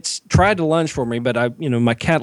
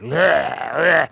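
imitated hunchback noise. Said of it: "like how the humpback walks".

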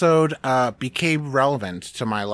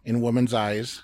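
imitating an Irish accent; 3 dB quieter than usual. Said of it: "he's practicing this accent".

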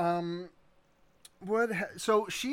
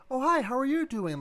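much higher, brighter rehearsed greeting; practiced girl voice; 9 semitones higher, 5 dB louder than usual. Shown as a demonstration. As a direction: lift it high like practicing a girl voice. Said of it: "my attempts at girl voice".

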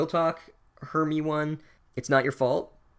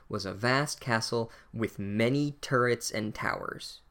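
reading the book aloud; slower than usual. Shown as a demonstration. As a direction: read slowly and a little grandly, as if from the page. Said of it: "the sentence that the narrator uses".

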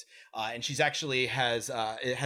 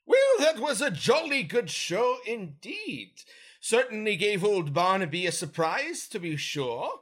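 a proper lady soldier, pitched way up; female Gith voice; 7 semitones higher, 4 dB louder than usual. Acted. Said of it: "This is my female Gith voice".

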